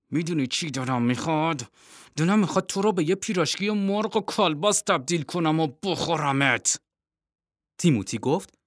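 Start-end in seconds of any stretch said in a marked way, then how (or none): 0.1-6.8 seething penguin threatens her brother; through a closed beak. Acted.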